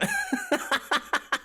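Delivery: breathy high laugh. Real, not acted. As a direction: laugh at your own joke. Laughing at own story.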